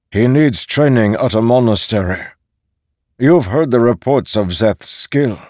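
put-on elderly Posen, forceful. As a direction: argue firmly as a senior master. Elderly Posen argues for Szeth.

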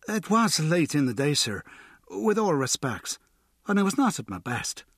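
fish for the gold coin while sounding respectful; Choky Bill, sly informant. A narrator's reading. Bill angling for the guinea, high and wheedling.

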